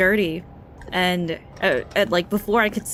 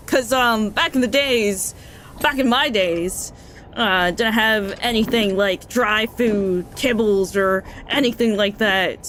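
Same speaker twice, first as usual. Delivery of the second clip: lightly voiced old man, raised and louder, lecturing; a hint of a pushy old man insisting, louder; preachy old man; 3 semitones higher, 4 dB louder than usual. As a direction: wag a finger like an old-timer giving advice. Old man lectures about dog food.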